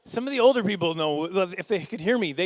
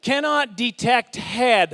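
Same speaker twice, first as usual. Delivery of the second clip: slow, loud, higher announcement; error message voice; 5 semitones higher, 6 dB louder, much slower than usual. Acted. Xbox showing an error to the player, slow announcement. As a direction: announce it word by word as a console. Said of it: "You know what the error message said?".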